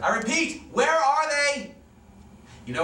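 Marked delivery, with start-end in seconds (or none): 0.0-1.7 berating. Acted. Captain berating the crying women, slow and forceful. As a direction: drag out each word as a threat. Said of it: "Mordecai continues to berate them".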